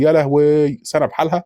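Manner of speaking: high-pitched mock wail of dismay; narrator's mild mock shriek. A narrator's reading. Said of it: "بتقعد تصوت وتقول".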